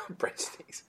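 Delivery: breathy laughing repeat. Real, not acted. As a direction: giggle the word out. Laughing at the breadsticks joke.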